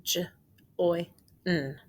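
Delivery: J-O-I-N spelled letter by letter; tapping out letters. Shown as a demonstration. Tapping out letters for the class. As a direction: tap out each letter of join. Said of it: "Let's tap it out".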